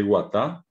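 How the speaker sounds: guatá said slowly with a plain oral g; guatá with a hard, non-nasal g. Shown as a demonstration. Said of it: "que es la G oral".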